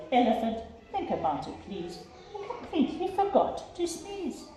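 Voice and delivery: gently mocking the big elephant; lightly voiced mouse. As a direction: mouse playfully scolding, understated.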